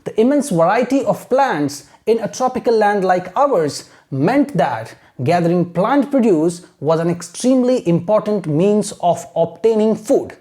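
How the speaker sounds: slow, steady model reading in long phrases; measured, continuous teacher's read-aloud; reading without stopping. Shown as a demonstration. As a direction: carry the sentence through evenly for learners. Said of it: "this is how we have to read".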